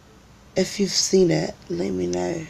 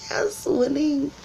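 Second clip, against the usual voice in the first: triumphant yes; 10 semitones higher, slower than usual. Retold or imitated. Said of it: "I was like".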